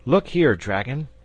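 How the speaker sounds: put-on jealous boy interrupting the dragon. A narrator's reading. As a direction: butt in on the grown-ups. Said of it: "interrupted the boy".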